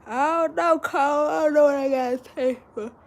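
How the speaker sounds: high, strained and emotional; overwhelmed, voice tight; choked up. Real, not acted.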